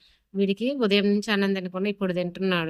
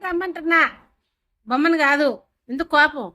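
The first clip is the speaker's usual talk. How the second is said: higher, sing-song cooing at the pet; cooing at the dog; 5 semitones higher than usual. Real, not acted. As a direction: coax a sulking dog in a high voice. (అలిగిన కుక్కను బుజ్జగిస్తూ పై స్వరం)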